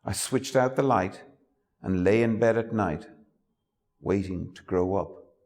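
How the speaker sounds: measured, reflective reading of a poem; a poet reading an elegy for his mother; poetry reading. Acted. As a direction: let each line land with pauses. Poet reads own poem aloud.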